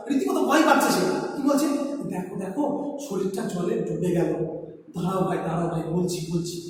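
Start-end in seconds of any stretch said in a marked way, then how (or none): 2.1-6.6 soft, lower, broken-off voice; a scared ant choking on its words; frightened faltering ant voice; halting half-voice. A narrator's reading. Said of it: "আধো আধো গলায় বলছে, স্পষ্টভাবে বলতে পারছে না".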